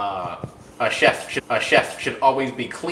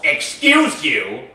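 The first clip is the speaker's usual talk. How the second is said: mock offended; much slower than usual.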